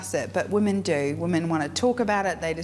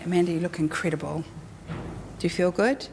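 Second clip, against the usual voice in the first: sincere compliment; 3 semitones lower, faster than usual. Shown as a demonstration. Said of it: "I'm not gonna sit there and go".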